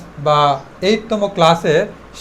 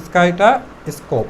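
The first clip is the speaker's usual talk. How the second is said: word list run together, trailing down at the end; one-breath drill. Shown as a demonstration. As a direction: chain the words on a single breath. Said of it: "একদমে practice করো".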